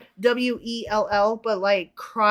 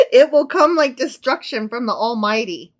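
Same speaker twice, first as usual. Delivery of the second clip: louder declaimed verse; mock-solemn proclamation; dramatic scripture reading; 2 semitones higher, 6 dB louder than usual. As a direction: proclaim it through leftover amusement. Dramatic scripture reading after laughing.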